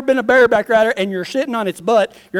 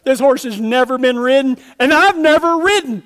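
panicked; 3 semitones higher than usual. Retold or imitated. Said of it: "And I'm just crying".

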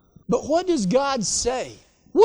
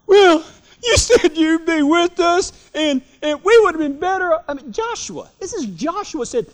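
high, pleading whine with a cry in the voice; whiny Joshua complaint; 5 semitones higher, 5 dB louder than usual. Acted. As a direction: moan to God like he let you down. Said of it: "you can see Joshua's like".

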